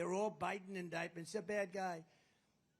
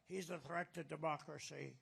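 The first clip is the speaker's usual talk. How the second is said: Biden; 3 semitones lower, 6 dB quieter than usual. Acted. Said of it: "You ever hear Biden?".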